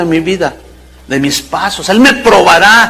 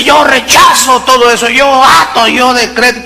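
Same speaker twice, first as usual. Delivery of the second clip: mock declaring shout; 5 semitones higher than usual. Mocking a false "faith" declaration.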